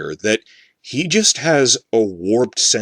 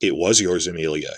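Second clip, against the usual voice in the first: flat deadpan serious low monotone; 4 semitones lower, 4 dB quieter than usual. Acting out how he gaslights her, in a mock-serious flat voice. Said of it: "going in in this flat voice".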